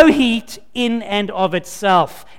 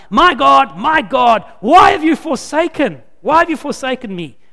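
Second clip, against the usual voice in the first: a touch of anguish, lightly raised; anguished cry; 4 semitones higher, 3 dB louder than usual. Retold or imitated. Jesus on the cross crying to God, understated anguish. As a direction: cry it out with restrained pain. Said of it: "he utters that gut-wrenching cry".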